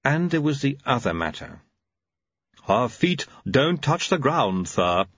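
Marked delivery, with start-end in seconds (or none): 2.7-5.1 Igor voice. Acted. Igor speaks, lisping servant.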